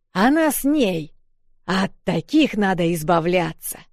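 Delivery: angry yell. A narrator's reading. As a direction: yell to rouse the mob. Bearded man yelling at crowd.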